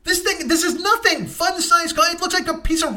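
comic indignation at a tiny gift; outraged. Real, not acted. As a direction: shriek at the insult of it. Outrage at tiny candy bar.

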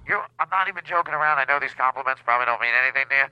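nose pinched shut; holding nose. Acted. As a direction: voice squeezed through a held nose. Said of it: "I'm also holding my nose".

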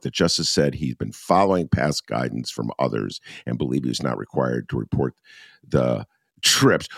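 deadpan newsreader delivery; straight news read. Shown as a demonstration. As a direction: read it dry like radio news. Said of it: "I'm gonna read it straight like I was on W B Z or N P R".

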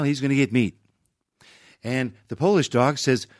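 folksy, halting president telling a joke; lightly voiced Reagan joke-telling; Ronald Reagan. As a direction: pause and ramble toward the punch line. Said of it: "He always told a joke".

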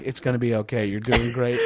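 calm a scared stranger gently; soft reassurance. Retold or imitated. Soothing panicked woman on flight.

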